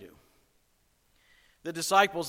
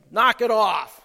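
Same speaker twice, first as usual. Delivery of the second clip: loud, higher snap at the wind; sharp scolding; 5 semitones higher, 10 dB louder than usual. Retold or imitated. Jesus scolding the wind and waves, loud and stern. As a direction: tell it off like a fed-up parent.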